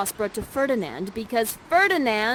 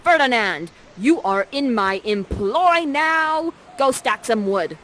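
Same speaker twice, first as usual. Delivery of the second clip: louder, gloating command; triumphant Prospera; 5 dB louder than usual. Acted. Prospera claiming Ferdinand as her servant, louder gloating command. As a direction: lord it over him, slowing down. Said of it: "And you say".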